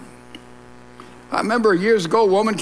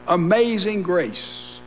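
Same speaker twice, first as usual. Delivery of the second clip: a slow, hushed echo of "Amazing grace"; slow, reverent; slower than usual. Shown as a demonstration.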